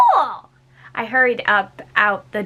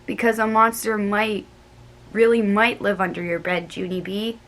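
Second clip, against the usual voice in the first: ominous little friend; lightly voiced Grace. A narrator's reading. Grace warning Junie B about monsters, hushed. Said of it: "she said".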